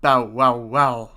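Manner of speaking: loud barking woof; dog bark. Acted. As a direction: bark fiercely like a charging dog. Dog leaps into courtyard.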